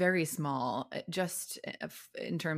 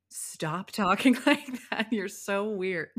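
mock exasperated mom, louder and higher; retold scolding; 3 semitones higher, 4 dB louder, slower than usual. Mom tells her to stop talking British, mock scolding. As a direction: drag out the telling-off, a laugh slipping in.

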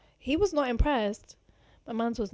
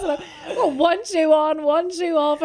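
higher and louder, laughing along; 6 semitones higher, 6 dB louder, slower than usual. Real, not acted. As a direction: giggle through the picture. Laughing at her own state.

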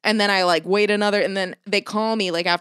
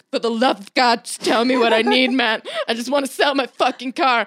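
exasperated plea; 2 semitones higher than usual. Shown as a demonstration. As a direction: beg them, worn out and exasperated. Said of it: "I literally said it like this".

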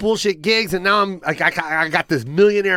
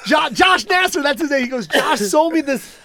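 laughing hard; 8 semitones higher, slower than usual. Real, not acted. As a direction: fight through the laughter. Laughing near crying at punchline.

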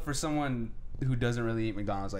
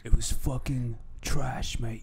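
mock British; slower than usual. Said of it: "I'm not gonna fucking do the accent".

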